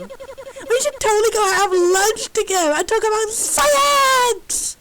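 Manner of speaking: slow, gushing invitation to lunch; a giddy robot begging for a lunch date; overexcited robot. Acted. Giddy robot inviting scientist to lunch, slow and gushing.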